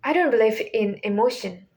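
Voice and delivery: flat, emotionless delivery, rather fast; Wednesday. Acted. Teacher quoting the series' main character, flat deadpan tone. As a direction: keep it level, no rise or fall. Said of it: "speaks in a flat tone".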